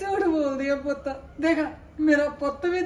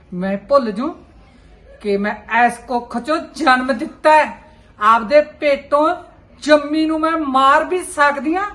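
angry threat; 6 dB louder than usual. Acted. Mother threatens daughter in anger.

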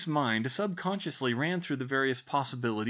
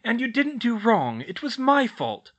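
high, loud taking of blame; insistent; 10 semitones higher, 7 dB louder than usual. A narrator's reading. Girl to self-blaming elf, insistent. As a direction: own the blame emphatically. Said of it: "Hermione insisted".

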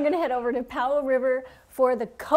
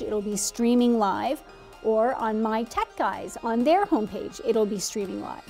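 announcer read. Acted. Reads promo segment on air.

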